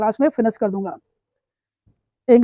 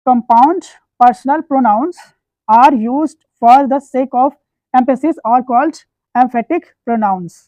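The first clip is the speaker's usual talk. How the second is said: slow dictation; much slower than usual. Shown as a demonstration. Teacher dictating the grammar rule to his class, very slowly. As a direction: read the definition out for students to copy.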